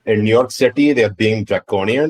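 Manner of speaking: exasperated rant in a put-on Indian accent; hammed-up Indian-accented complaint. Mock exasperated rant continues.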